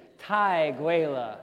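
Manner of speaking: put-on chanting 太贵了 with the children; Chinese phrase. Shown as a demonstration. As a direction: lead the kids in 太贵了 together. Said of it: "I want you guys to say that too".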